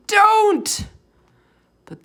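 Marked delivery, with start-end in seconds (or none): 0.1-0.9 high, loud shriek; a sudden terrified high cry; scream. A narrator's reading. Sophie almost screaming at the giant, in a high shriek.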